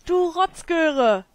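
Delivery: drawn-out playful name-calling; mock insult. Real, not acted. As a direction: drag out the insult in playful anger. Insulting the sim slowly.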